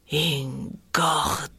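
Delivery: INGORDA drawn out slowly, syllable by syllable; low, slow spelling-out of each syllable. Retold or imitated. Woman recalls Franz's last word to her, syllable by syllable. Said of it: "scandito sillaba per sillaba".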